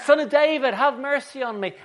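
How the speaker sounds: high, loud beggar's plea; acted cry for mercy; shouting. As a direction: holler it to be heard. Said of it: "blethering and shouting".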